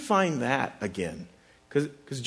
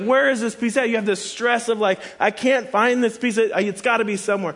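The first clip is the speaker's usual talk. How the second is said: frantic; 5 semitones higher than usual. Retold or imitated. Preacher retelling his hunt for a missing puzzle piece, frantic. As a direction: replay the panic over a lost piece.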